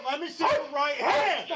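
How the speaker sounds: high, loud command; shouted order. Real, not acted. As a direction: demand it at full volume. Partner orders suspect to show hands.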